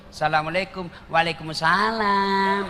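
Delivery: imitating a sweet phone voice; mock sultry voice. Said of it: "jangan kau kasih syahdu suaramu".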